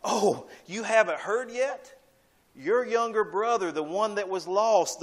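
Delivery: lightly voiced servant bringing good news; eager servant. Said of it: "The servant says to him".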